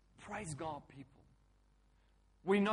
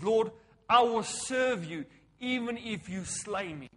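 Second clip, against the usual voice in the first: tag; 5 semitones higher, 9 dB louder, slower than usual. Retold or imitated. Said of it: "Like Job said".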